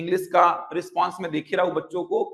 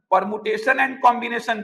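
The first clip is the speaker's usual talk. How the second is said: slow careful enunciation; 2 semitones higher, much slower than usual. Shown as a demonstration. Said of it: "teacher spelling out a term".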